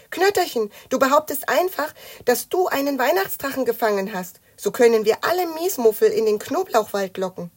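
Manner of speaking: put-on high, loud eager child; excited scheming. A narrator's reading. Matz tells Knötterchen his luring plan, excited.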